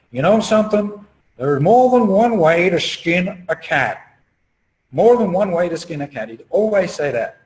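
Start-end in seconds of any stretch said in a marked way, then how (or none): 0.1-6.3 family friend's saying. Retold or imitated. Speaker quotes a family friend from childhood, imitated accented voice. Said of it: "friend of the family used to say this".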